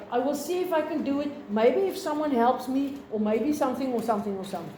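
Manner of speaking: quick, unsure mock waffling that trails off; hesitant rambling. Shown as a demonstration. Teacher mocking a hesitant speaker for students, quick waffle. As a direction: sound like someone dodging a commitment, rushing. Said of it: "You don't say".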